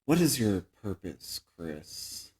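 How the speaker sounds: low, soft menacing father; quiet, ominous dad voice, dropping away; creepy father. Retold or imitated.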